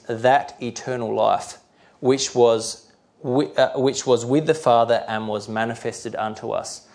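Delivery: slow, weighty scripture reading; measured Bible reading; slow, clear reading. Real, not acted. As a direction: spell the verse out slowly and clearly. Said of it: "I'll try to read them slowly and clearly".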